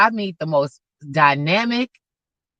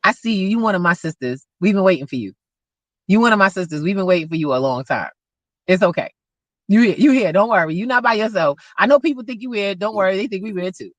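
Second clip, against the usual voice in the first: reassuring; faster than usual. Retold or imitated. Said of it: "I said".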